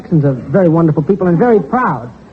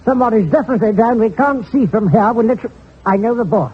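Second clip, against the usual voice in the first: higher, excited British ringside commentary; English boxing commentator; 3 semitones higher than usual. Acted. Comedian sketches an English fight broadcaster, in British accent. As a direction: call the fight like a posh English announcer. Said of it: "thumbnail sketch of an Englishman doing a prize fight".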